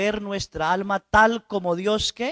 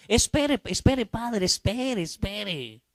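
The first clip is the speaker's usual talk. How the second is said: flustered stalling; 4 semitones higher, slower than usual. Retold or imitated. Penitent stalls the priest.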